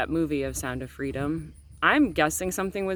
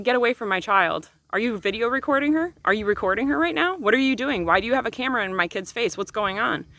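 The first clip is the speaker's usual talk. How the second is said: furious mother retold; 6 semitones higher than usual. Mother confronts stranger filming child.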